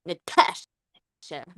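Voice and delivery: drawn-out Russian Natasha; slow mock Russian; Russian accent. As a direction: stretch the name slowly in a Russian accent. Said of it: "your Russian".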